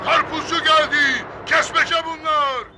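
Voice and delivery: drawn-out hawker's cry; sustained watermelon seller's call; vendor bawling on microphone. Acted. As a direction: sing out the wares slowly. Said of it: "mikrofonla avaz avaz".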